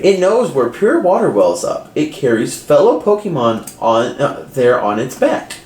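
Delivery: flat robotic Pokédex voice; monotone machine readout. Acted. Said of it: "in a very robotic voice".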